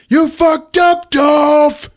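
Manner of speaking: high, slow menacing yell; loud, stretched-out taunt; mock gang threat. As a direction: shout it like a hammed-up villain. Gang shouts threats, retold.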